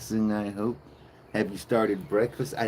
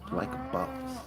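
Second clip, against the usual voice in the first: mock boast; 9 dB quieter than usual. High breathy tag line.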